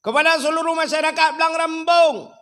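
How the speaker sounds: high, loud mosque announcement; over a PA system. Retold or imitated. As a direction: call it out like a loudspeaker notice. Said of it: "Bengah ku pegah pengumuman li ku imum".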